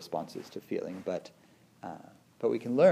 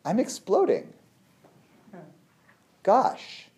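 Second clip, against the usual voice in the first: high, loud mock alarm; playful exploding; 10 semitones higher, 5 dB louder, slower than usual. Not under threat, voicing her anger with playful alarm. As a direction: delight in the explosion.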